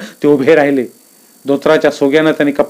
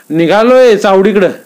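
raised, slow reply; a hint of an elder's voice; old Aba answering; 6 semitones higher, 5 dB louder than usual. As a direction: answer with a nod, unhurried.

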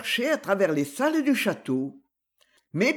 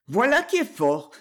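impatienté; 4 semitones higher than usual. Acted. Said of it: "s'écria le chevalier impatienté".

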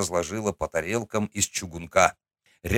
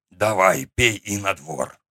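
очень старый человек; slower than usual. Acted. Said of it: "велел мне дед".

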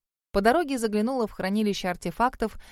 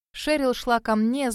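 ordinary delivery

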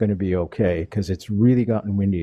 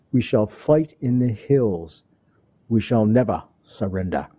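Winston Churchill. Acted. Radio host reading a famous wartime speech to listeners, light English-accented impression. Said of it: "my best English accent and Churchill impression".

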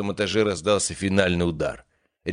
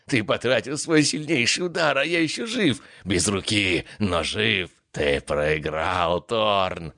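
wasteland raider; 2 semitones higher, slower than usual. Acted. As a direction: crow it like a maniac who won. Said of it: "безумно захохотал он".

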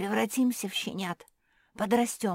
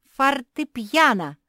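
much higher, louder and slow call; loud announcement; 7 semitones higher, 11 dB louder, slower than usual. Acted. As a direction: proclaim it for all to hear. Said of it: "объявила Мафи". (громкое торжественное объявление)

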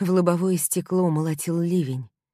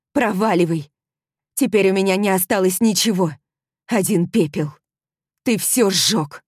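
furious yelling; 4 semitones higher, 6 dB louder than usual. Acted. Heroine drives him away.

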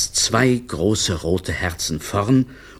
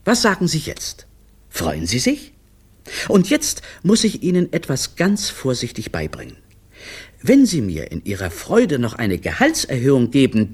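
hurried, nervous-speaker patter; a touch of gabbled apology; faster and faster; 3 semitones higher than usual. Acted. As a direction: pick up speed as you plead. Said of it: "seine Stimme wurde immer schneller".

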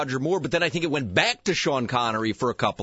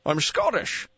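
Sean Connery impression; slower than usual. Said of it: "That does sound like Sean Connery".

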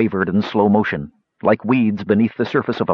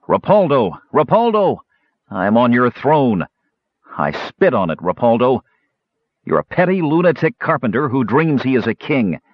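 raised, deliberate goading; taunting challenge. Acted. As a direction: call the foe out with scornful emphasis. Knight taunting foe from his throne.

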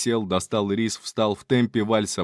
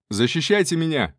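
higher, urgent shout for cover; shouted command; 6 semitones higher than usual. Acted. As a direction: call out to the allies. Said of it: "крикнул я".

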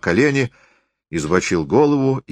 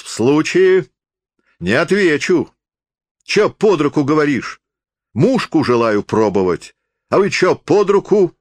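wild shout; 9 semitones higher, 4 dB louder than usual. A narrator's reading. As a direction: lash out wildly at being interrupted. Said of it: "крикнул он дико". (дикий высокий окрик)

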